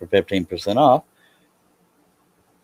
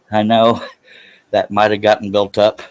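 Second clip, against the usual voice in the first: breathless and a bit louder; out of breath; 3 semitones higher, 5 dB louder than usual. Real, not acted. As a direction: catch your breath between words. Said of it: "I'm out of breath".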